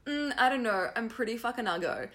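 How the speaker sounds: lightly acted demurral; casual mock self-deprecation; imagined reluctant sitter. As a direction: play a mildly hesitant reply to an offer. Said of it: "and you say".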